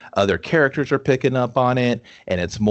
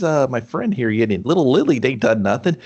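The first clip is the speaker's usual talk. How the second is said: indignant; 5 semitones higher than usual. Retold or imitated. Voicing indignant complaint to teacher.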